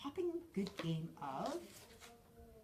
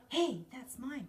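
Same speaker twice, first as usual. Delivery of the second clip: loud, higher bossy claim; ordering; 7 semitones higher, 10 dB louder, slower than usual. A narrator's reading. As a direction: bark it like the owner. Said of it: "Crispin ordered".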